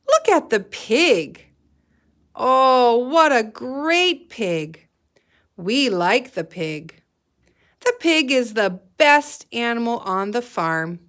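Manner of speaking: put-on excited children. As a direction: kids gushing over the pig. Children praise the pig.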